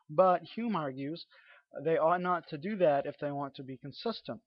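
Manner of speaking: fluent, emphatic read-aloud from a book. Acted. Lecturer reading a philosophy book to viewers, emphatic read-aloud.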